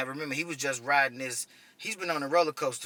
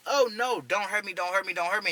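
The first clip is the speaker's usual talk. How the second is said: mock panicked pleading, pitched up; freaking out; 4 semitones higher, 3 dB louder than usual. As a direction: imitate a frightened man begging in a rush. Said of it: "he's freaking out".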